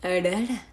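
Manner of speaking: a light, rising cartoon growl "Arara"; Japanese-style roar. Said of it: "arara is, like, my Japanese voice".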